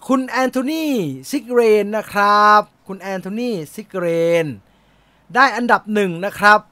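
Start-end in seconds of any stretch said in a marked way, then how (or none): 0.1-4.4 winner announcement. Real, not acted.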